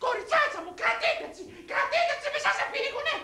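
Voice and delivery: very high, put-on matriarch; shrieky-high comic mother-in-law. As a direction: command your daughters in a high-pitched voice. Mother-in-law orders men held.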